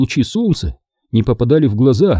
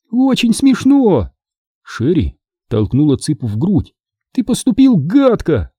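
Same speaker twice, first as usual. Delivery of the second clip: sarcastic scold; 6 semitones higher than usual. Acted. Sherry shoves Chicken and scolds him, high sarcastic.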